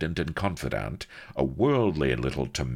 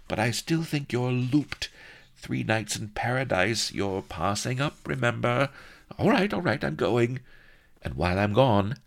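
high, grumbling confidante; wry maid; 7 semitones higher than usual. A narrator's reading. Maid teasing the princess, high grumbling. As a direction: tease her while obeying.

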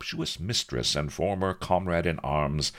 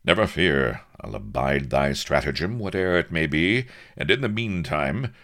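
higher, grandiloquent buccaneer voice; hearty captain; 7 semitones higher, 4 dB louder than usual. Acted. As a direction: pledge grandly, then ask favours brightly. Captain accepts and requests kit.

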